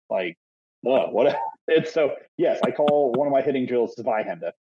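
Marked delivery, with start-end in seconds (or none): 4.0-4.5 Zweihände with a German "tsvai" onset; light German accent. Shown as a demonstration. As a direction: say the drill name as a German word. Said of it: "why do you say it in an accent".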